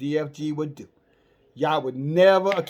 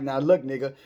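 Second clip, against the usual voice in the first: mildly agitated angels; 4 dB louder than usual. Retold or imitated. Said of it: "these angels are kinda getting a little agitated".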